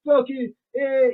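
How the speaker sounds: imitated drunken Southern accent; full Southern. Brother on the phone sounding drunk, imitated Southern accent. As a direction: mimic a thick, slurred Southern accent. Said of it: "full Southern".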